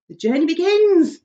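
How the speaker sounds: high, loud proclamation; grand shout. Acted. Centipede shouting to everyone as the journey starts, grandly. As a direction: proclaim it to all. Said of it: "shouted the centipede".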